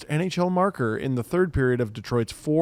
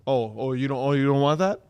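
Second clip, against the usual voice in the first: mock scolding; 3 semitones lower than usual. Voicing a scolding ref.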